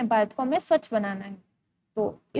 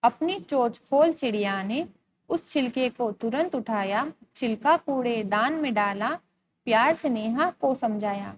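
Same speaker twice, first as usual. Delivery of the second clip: poem recitation. Acted. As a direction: recite line by line with pauses between. Reads the poem again. (कविता पाठ)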